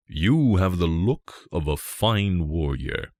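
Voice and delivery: a lightly voiced king speaking with slow weight; deep king's voice. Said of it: "his voice was deep".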